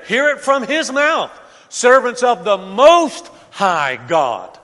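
preacher stressing the king's words; emphatic quote. Shown as a demonstration. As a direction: lean on "Most" and draw it out.

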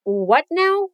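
mock-annoyed "What NOW?"; playful exasperation. Shown as a demonstration.

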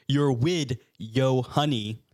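slow, halting story read; deliberate literal reading. Acted. Clay reads a badly written creepypasta to co-hosts, slow and deliberate. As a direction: read it word by word, drawn out. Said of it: "I'm reading it exactly as it's written".

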